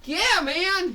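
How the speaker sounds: very high, eager cheer; hyped yes. Acted. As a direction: confirm with glee. Excited confirmation.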